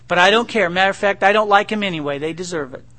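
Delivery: a hammed-up grumpy tantrum; mock tantrum. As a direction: stamp your foot at God. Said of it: "a little temper tantrum".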